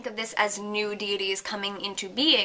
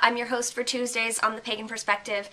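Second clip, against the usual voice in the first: stuffy nose; 3 semitones higher than usual. Real, not acted. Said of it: "I sound really stuffy".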